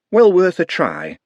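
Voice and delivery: slow, odd wizard voice; a lightly voiced old wizard; Doctor Hicks. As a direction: muse it slowly. Hicks voiced in read story.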